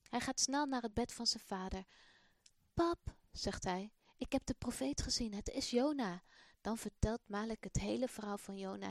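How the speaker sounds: put-on expressive storybook reading for children; children's story voice; story narration. A narrator's reading. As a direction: tell the story warmly to young listeners. Reads the Malik story aloud.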